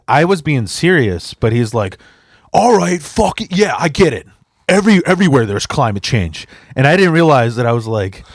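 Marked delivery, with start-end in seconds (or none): 2.5-6.5 put-on high, loose drunk mumble giving in; drunk guy voice. Imitating a drunk stranger at the bar, higher. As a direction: play the drunk guy caving with a shrug.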